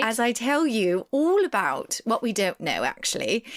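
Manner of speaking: hammed-up, badly faked British accent. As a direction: put on a poor British accent. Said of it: "do a really bad accent".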